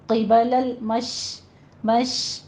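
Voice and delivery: drawn-out hushing sh in المش; slow tajweed model, held sh closing مش; careful recitation. Shown as a demonstration. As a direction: stop on a long sh in مش, no added vowel. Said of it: "مشرقی نہیں کہنا".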